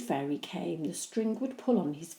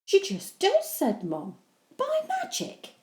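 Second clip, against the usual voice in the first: patient; 14 semitones higher, 4 dB louder than usual. Acted. Mum brushing off.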